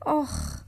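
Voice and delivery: low, soft "ach" of pain; pained groan. Acted. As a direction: let out a short low groan. Sore runner winces mid-answer.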